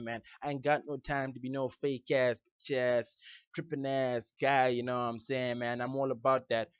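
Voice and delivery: loud American hip-hop swagger; boastful club-guy patter in an American accent; put-on American accent. Shown as a demonstration. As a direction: talk big in an American street accent. Demonstrating an accent with club slang.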